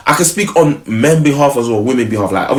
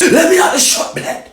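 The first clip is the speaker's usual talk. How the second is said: squeaky mock. Mocking girlfriend's line.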